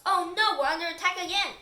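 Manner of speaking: loud, high cry of alarm; yelling. A narrator's reading. Professor panicking at flying marshmallows, yelling in alarm. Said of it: "puts his hands up and yells".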